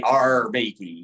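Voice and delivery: slow, drawn-out pirate "Arr"; lightly voiced movie pirate; Long John Silver. Kid copying the film pirate, light pirate drawl. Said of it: "talk like Long John Silver".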